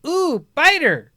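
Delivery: put-on high, slow, delighted toddler coo. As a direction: coo it like a fascinated baby. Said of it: "I hear her go".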